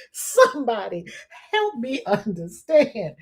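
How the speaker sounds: drawn-out, slow plea; slow mock plea. Begging someone to explain the story, slow plea. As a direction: stretch each word of the plea.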